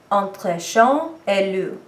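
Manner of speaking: slow, careful, admittedly rough French phrase; self-admitted bad French accent. Shown as a demonstration. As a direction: carefully sound out entre chien et loup in imperfect French. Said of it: "bear with my terrible accent".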